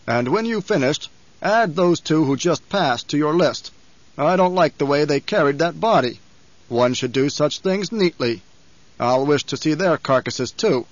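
measured Baron, lightly voiced, ruthless; a touch of fussy menace in the orders; commanding Baron.

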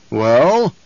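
sharp demanding bark. Acted. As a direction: demand an answer loudly. Baron demands answer.

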